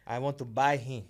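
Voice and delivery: cracking up mid-line; giggling as he makes the offer; laughing through it. Pretend. Joking podcast host laughing while playing the buyer.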